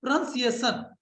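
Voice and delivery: "प्रोनंसिएशन" as pra-nun-si-ay-shun, on its own; careful model of "प्रोनंसिएशन", short middle vowel; correct pronunciation. Shown as a demonstration. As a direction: say "प्रोनंसिएशन" with NUN, not NOUN. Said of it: "क्या होता है भैया?".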